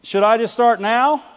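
keen, rising question; mildly eager, confident asking; encouraged eagerness. Acted. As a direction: ask as if raring to charge off. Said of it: "that's somebody that's encouraged".

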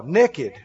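"Naked" said as "nekkid"; Arkansas pronunciation. Shown as a demonstration. Preacher joking about having no clothes, "Naked" as "nekkid". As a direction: say "Naked" Arkansas-style, with a short e. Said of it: "what did it say in Arkansas?".

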